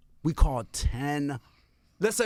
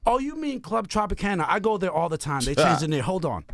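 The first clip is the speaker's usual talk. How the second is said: operator voice. Retold or imitated. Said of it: "she's like this".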